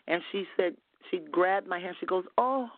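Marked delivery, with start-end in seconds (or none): 2.4-2.7 high, plaintive mock-tearful oh; imitated fake crying. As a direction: put on a tearful little gasp. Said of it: "she was pretending like she was crying".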